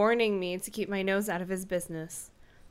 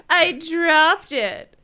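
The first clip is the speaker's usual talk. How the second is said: malicious; 7 semitones higher, 10 dB louder, much slower than usual. Acted. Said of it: "he said maliciously".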